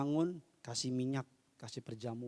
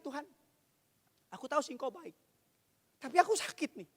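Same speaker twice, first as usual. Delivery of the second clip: lament; 12 semitones higher, faster than usual. Shown as a demonstration. Believer telling God of hurt while trusting him, plaintive lament. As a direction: demonstrate a hushed, pained lament to God. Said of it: "Ratapan gini ya".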